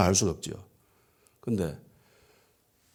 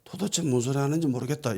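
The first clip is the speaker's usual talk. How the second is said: higher-pitched flustered protest; flustered denial; 5 semitones higher, 4 dB quieter than usual. Acted. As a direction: deny it, mildly rattled. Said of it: "이렇게 당황하면 나오는 소리죠".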